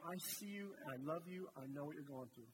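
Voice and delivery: soft, gentle, reassuring whisper-close words; tender voice of God. Acted. The Lord speaking into your heart, softly tender. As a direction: speak as a loving God to a hurting listener. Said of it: "the Lord spoke into your heart".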